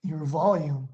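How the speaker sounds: volume pushed up, falling tune. Shown as a demonstration. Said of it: "what you do with your voice".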